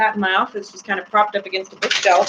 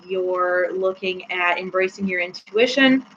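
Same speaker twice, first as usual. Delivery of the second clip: ordinary talk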